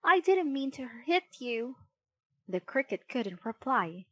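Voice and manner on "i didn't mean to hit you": higher, upset plea; mildly distressed excuse; dismayed apology. A narrator's reading. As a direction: puppet protesting innocence. Pinocchio apologizes after hitting cricket.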